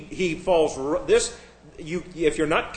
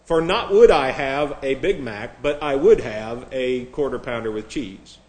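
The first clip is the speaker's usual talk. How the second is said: mock stilted parody; 2 semitones lower than usual. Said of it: "we talk like that all the time".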